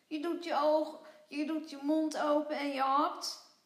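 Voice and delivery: cheeky little creature singing out the steps; sing-song creature. Acted. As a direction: lilt it like it's the easiest thing ever. Vlos explains breezily, sing-song.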